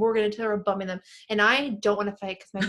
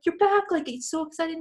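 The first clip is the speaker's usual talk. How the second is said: much higher, gushing; excited crowd; 7 semitones higher than usual. Retold or imitated. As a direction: greet her like a returning star. Ten bar regulars greeting her.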